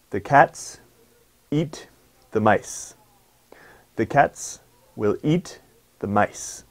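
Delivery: each stressed word on its own beat with pauses. Shown as a demonstration. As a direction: keep the beat steady. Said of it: "You can generally see the rhythm".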